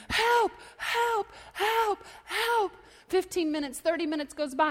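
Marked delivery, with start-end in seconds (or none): 0.1-2.7 high, drawn-out cries for help; mock screaming. Man dangling off a cliff, acted high cry for help. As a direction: call out from far below, hammed up. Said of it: "he starts screaming".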